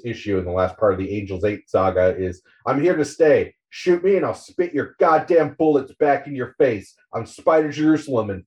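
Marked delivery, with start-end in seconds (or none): 2.6-8.4 defiant declaration. Acted. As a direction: throw it back at the whole city. Reads Spider's defiant closing line.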